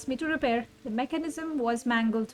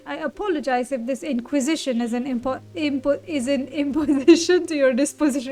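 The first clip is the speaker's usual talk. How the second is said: pompous gentleman; 7 dB louder, faster than usual. Acted. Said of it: "stop this pompous nonsense".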